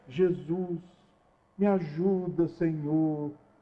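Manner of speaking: soft, slow, honeyed, sugary sweet voice. Act out how people's voices change when they talk to jesus, in a put-on syrupy voice. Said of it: "Aí aquela voz melosa".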